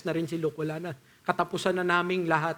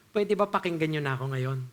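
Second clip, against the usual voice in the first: calm appeal; 4 semitones lower than usual. Retold or imitated. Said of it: "yung tono niya ganito".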